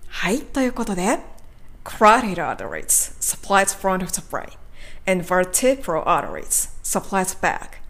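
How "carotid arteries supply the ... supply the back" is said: slow, careful English model of "Carotid arteries", phrase by phrase; native pronunciation demo. Shown as a demonstration. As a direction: say "vertebral arteries" slowly and carefully, as a coach copying the clip. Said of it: "というような感じで発音されていた".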